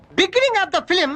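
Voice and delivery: grand story pitch. Acted. Director grandly pitches film story.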